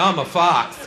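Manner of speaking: shouted silly boast; mock-proud shout; goofy soldier. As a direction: yell it proudly like a fool. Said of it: "There was always one guy".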